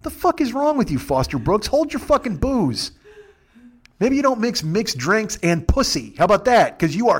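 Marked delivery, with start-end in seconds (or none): 0.0-2.9 mock rant. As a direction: spit out the insult, pitched up. Ranting at drunk passenger.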